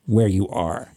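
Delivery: low, grave movie-style warning; mock-serious Southern warning; confidential warning. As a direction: take him aside and warn him, imitating a film local. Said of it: "the guy takes him aside".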